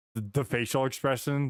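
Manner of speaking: ordinary talk, nothing marked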